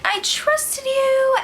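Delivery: hammed-up weepy plea; imitating crying. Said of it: "So Nicole starts freaking crying".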